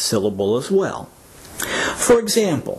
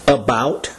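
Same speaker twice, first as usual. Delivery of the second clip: About, with the second syllable stressed; 3 semitones lower than usual. Shown as a demonstration. Teacher models About for learners, second syllable stressed. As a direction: lean on the "bout" in About. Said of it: "second syllable that is stressed".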